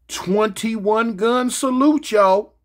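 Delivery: slow, stretched build-up; slow announcing, every word drawn long; drawn-out announcement. Acted.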